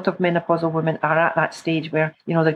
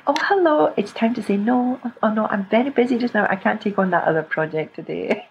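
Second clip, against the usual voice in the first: playful mirror rehearsal. Pretend. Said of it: "talk in the mirror and say".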